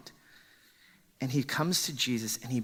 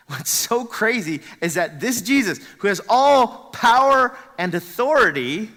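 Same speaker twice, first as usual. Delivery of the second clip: loud, higher, driving preacher's peak; emphatic preaching; 8 semitones higher, 12 dB louder than usual. Real, not acted. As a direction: let the voice swell on his power. Preacher building on Jesus' power.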